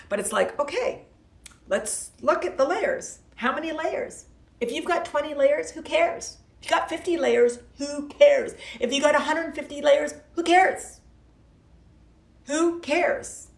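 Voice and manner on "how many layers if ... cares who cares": escalating dismissive who cares; building emphasis. Real, not acted. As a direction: build it up each time. Building rant on layers.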